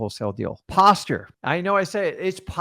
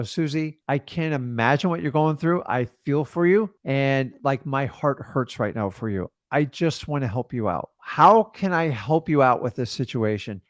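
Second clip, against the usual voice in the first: compassionate demo; 3 semitones lower than usual. Shown as a demonstration. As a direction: comfort a struggling seller gently.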